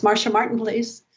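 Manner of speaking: brisk, businesslike, clipped at the end; a busy assistant putting a call through, brushing past; curt secretary voice. Retold or imitated. Teller mimics the assistant calling for Marcia, lightly curt. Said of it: "this woman in a very kind of curt voice says".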